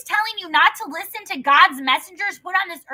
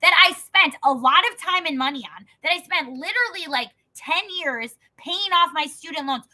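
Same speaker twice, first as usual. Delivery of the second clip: retold angry retort. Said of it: "And I'm like".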